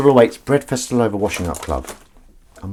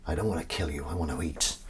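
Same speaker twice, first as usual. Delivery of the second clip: quoted line; 5 semitones lower, 12 dB quieter than usual. Retold or imitated. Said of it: "do them in the voice as well".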